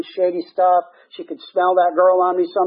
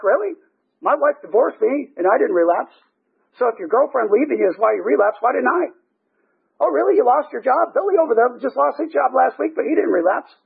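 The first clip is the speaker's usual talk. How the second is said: higher-pitched sceptical challenge; mock incredulity; 6 semitones higher than usual. Sponsor answering a sponsee's excuse for relapsing, incredulous. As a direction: knock down each excuse with acted disbelief.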